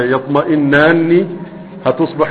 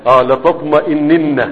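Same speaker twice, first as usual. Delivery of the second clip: slow model. Shown as a demonstration. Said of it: "والله لتطمئن".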